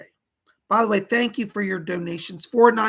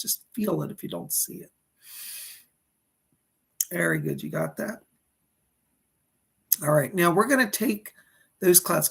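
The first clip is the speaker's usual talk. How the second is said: calm, even meditation guide voice; guided meditation. Acted.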